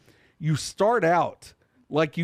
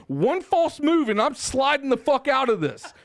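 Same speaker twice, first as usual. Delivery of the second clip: panicked thought; 6 semitones higher than usual. Retold or imitated. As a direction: replay the moment you thought you'd slide off. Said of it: "I'm like".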